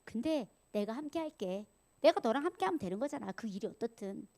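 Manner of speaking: mostly soft, unhurried reassurance; reassuring God. Acted. God reassuring Moses he will be with him, tender. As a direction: gently promise to be there. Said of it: "하나님이 얘기했잖아요".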